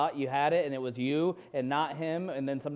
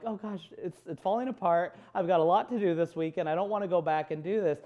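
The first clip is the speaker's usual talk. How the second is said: retold upset; 4 semitones higher than usual. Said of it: "I was so upset".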